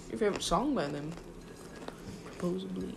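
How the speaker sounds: talking around a bite; chewing while talking. Real, not acted. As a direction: mouth full of food. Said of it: "Sorry, I'm chewing".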